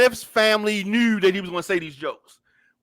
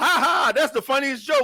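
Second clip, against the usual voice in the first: mock amused delivery, laughing along; 4 semitones higher than usual. Showing how Will Smith's laugh did not sound, mock amused laugh. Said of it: "his laughter was not a".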